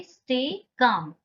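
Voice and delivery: "stay calm" with no L sounded in "calm"; slow, careful "stay calm", L left silent. Shown as a demonstration. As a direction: say "calm" as "kaam", drawn out after "stay". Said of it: "यहाँ पे एल silent रहता है".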